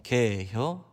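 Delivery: short drawled Chungcheong 개혀; a lightly voiced Chungcheong local offering food; Chungcheong dialect. Pastor imitating Chungcheong local, light dialect voice. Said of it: "충청도 사람들은 합니다".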